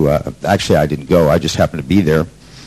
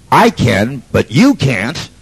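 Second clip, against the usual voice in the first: retold yell; 6 semitones higher, much slower than usual. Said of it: "And I yell out".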